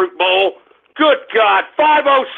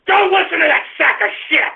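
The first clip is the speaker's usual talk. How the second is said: raised, exasperated order; angry outburst; 5 semitones higher than usual. Real, not acted. Host telling listeners to ignore the clip, angry. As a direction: pitch rising in indignation.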